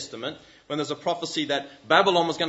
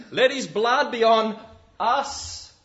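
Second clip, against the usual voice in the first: crowd shout; 7 semitones higher, 7 dB louder, much slower than usual. Retold or imitated. Crowd calling for crucifixion.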